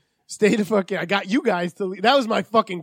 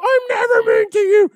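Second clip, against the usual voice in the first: mocking the boss; 8 dB louder than usual. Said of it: "the boss quoted".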